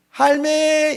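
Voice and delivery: high, loud Gyeongsang call with held last syllable; Gyeongsang dialect. Shown as a demonstration. Preacher showing Gyeongsang greeting to grandma, high dialect call. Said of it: "경상도 사투리로 어떻게 하는지".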